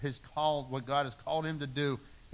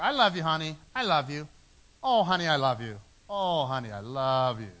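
a touch louder, sweet-talking his wife; mock doting husband; 6 dB louder than usual. Husband cooing at his wife, mock doting and louder. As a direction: lay the honey-talk on thick, playfully.

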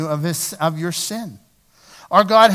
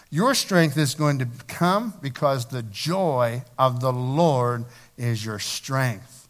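calm sincere teaching; 4 semitones lower than usual. Acted. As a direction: speak it gently and deliberately. Gentle lesson on true strength.

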